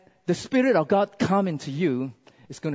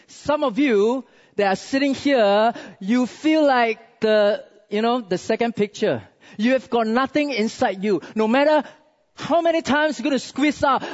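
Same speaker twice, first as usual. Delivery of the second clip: raised, emphatic preacher delivery; forceful preaching; 6 semitones higher, 3 dB louder than usual. Real, not acted. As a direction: press each point on the congregation.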